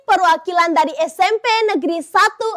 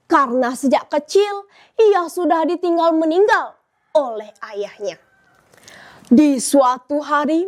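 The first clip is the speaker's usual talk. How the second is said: storytelling narration. Acted. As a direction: tell it like a storyteller on stage.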